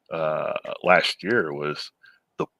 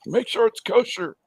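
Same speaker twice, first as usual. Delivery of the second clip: put-on New York Jewish accent; 12 semitones higher than usual. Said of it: "Except with a Jewish accent".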